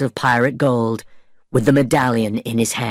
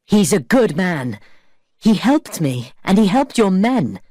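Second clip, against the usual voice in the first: shouted plea; 7 semitones higher than usual. Acted. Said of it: "shouted Elizabeth".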